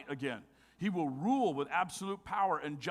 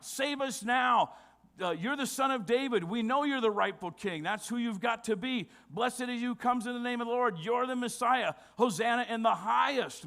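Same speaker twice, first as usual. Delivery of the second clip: crowd crying out; 5 semitones higher, 3 dB louder than usual. Retold or imitated. Preacher voices crowd hailing the king, shouted plea. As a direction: call out like a huge hopeful crowd. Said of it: "crying out".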